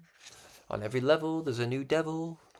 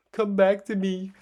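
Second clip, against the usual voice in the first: pleading call; 9 semitones higher, 10 dB louder than usual. Retold or imitated. Voicing envious people calling him back.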